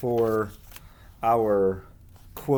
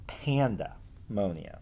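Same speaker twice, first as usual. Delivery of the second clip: whisper; 3 semitones lower, 6 dB quieter, slower than usual. Acted. Playful reveal of made-up word.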